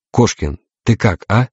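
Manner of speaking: slow, hesitant question; tentative checking, slightly lost; lost, timid. A narrator's reading. Invisible captain asks after the navigator, timid. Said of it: "Голос был растерянным, робким".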